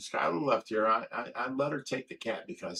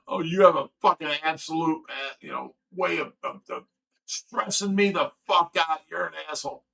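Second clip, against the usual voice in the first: loud, raised-pitch angry outburst; angry retort; 4 semitones higher, 6 dB louder than usual. Retold or imitated. Man retelling a fight over being stressed out, angry. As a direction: lash out in a retold argument.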